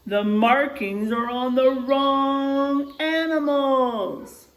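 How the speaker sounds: high, slow, dismayed animal; worried animal voice. Acted. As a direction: spell out the shock slowly. Animals discover wrong markings.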